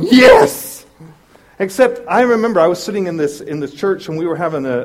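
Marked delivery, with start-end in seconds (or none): 0.0-0.9 whispered cheer of glee, much louder; a breathy fist-pump yes; triumphant yes. Retold or imitated. Driver watching the cop grab the idiot, breathy triumphant cheer. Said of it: "and you're going".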